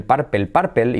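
purple spelled out the Spanish way; Spanish-style purple. Shown as a demonstration. Teacher mimics students reading purple in Spanish. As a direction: say purple as a schoolbook Spanish learner would. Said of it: "diciendo purple".

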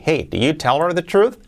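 fast, natural native-speed delivery; said quickly. Shown as a demonstration. Teacher showing the question at natural speed for learners. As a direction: run it together like real conversation. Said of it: "Dicho rápido".

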